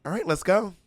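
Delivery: lightly acted resolve after a deep breath; composed recovery. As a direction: imitate gathering yourself after tears. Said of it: "takes a deep breath and goes".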